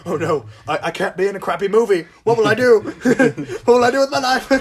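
high, loud panicky whine; panicked starlet. Retold or imitated. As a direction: wail about your ruined career. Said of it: "She'd be like".

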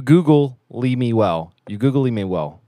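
very slow, drawn-out mock Zoolander; slow lightly voiced Zoolander line; Zoolander quote. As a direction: drag out googly like a dim model. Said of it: "why can't I say that for you".

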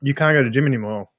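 talking around ice in mouth; mouth full. Real, not acted. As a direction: speak through a mouthful of ice. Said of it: "Sorry, I got ice in my mouth".

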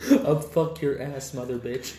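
1 quoting a bad dub. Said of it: "You ever seen that video?".

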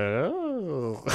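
long drawn-out "oh" swooping up and down; slow, weary "oh" with a big pitch arc; dazed groan. Retold or imitated. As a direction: let out a dazed, swooping ohhh. Recalls dazed reaction at bedtime.

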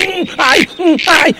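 high, loud yelps of pain, in bursts; mock agony, hum and ai over and over; pained moaning. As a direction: moan and yelp as it keeps pulling. Machine still pulling, can't switch off.

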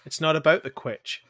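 light imitation of "It's not about the quitch", quitch said as kwitch; a playful quote of a comedy line, quitch rhyming with itch; quoting Ryan George. Friend quotes a Ryan George sketch line, mock-serious. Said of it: "That sounds like a Ryan George thing".

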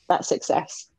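"that's success" breathed out low and unvoiced; hushed conclusion. Real, not acted. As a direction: drop it to a near whisper. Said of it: "As long as I'm fine".

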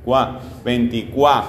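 "Veinticuá" ending firmly on CUÁ; teacher marking CUÁ as the strong part of "Veinticuá"; isolated stressed syllable. Shown as a demonstration. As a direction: cut the word off at "Cuá". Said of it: "¿Cuál?".

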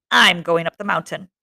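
spat out like a curse; vicious, cursing tone. Acted. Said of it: "The words came from Jack viciously, as though they were a curse".

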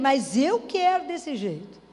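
slow, word-by-word stubborn plea; slow insistence. Retold or imitated. Believer repeating her wish to God, slow and stubborn. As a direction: drag it out, stubborn. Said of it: "A gente até dá sugestão pra Deus".

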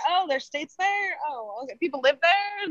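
mildly surprised questions, lifted in pitch; mock surprise. Coastal friend discovering the middle states, in mild mock surprise. Acts out own ignorance of Midwest.

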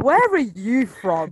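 put-on joking question about a slipped accent; laughing tease.

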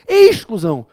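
Exclusão dita alto e com força; ênfase em exclusão. Shown as a demonstration. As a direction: martele a palavra Exclusão. (palavra Exclusão dita forte e alta)

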